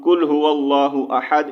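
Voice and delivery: قل said with a light ک sound, like کل; wrong pronunciation. Shown as a demonstration. Teacher shows the mistake, light ک in قل. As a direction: read قل هو اللہ احد with a thin front ک. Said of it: "اس طرح پڑھیں گے تو اس کا معنی ہوگا، کھاؤ".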